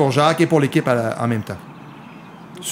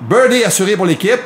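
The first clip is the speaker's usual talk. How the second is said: excited; 5 semitones higher than usual. Real, not acted. Cheering a birdie.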